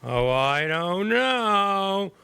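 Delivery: drawn-out, high mocking carrier voice; reluctant insurance carrier. Carriers turning down the reverse mortgage idea, mocking impression. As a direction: stretch every word into a high, slow mock whine. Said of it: "that was a good carrier impression there".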